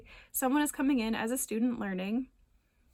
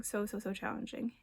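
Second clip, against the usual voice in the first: so, so, so challenging said much softer and sympathetic; soft empathic emphasis; 6 dB quieter than usual. Real, not acted. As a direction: lean in quietly, feeling it with them. Repeated for emphasis.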